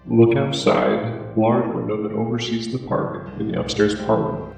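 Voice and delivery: slow, eerie, distant note voice. Acted. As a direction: read it out slow and ghostly. Reading the mysterious paper note.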